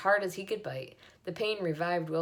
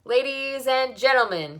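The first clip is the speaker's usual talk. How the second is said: loud, higher call to the crowd; announcer call; 7 semitones higher, 9 dB louder than usual. A narrator's reading. Loudspeaker calls the crowd to attention, loud. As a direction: call out to the whole fair.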